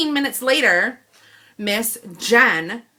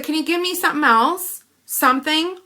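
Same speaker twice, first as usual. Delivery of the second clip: pleading exasperation; 6 semitones higher, 4 dB louder than usual. Retold or imitated. Pleading with manager for compensation.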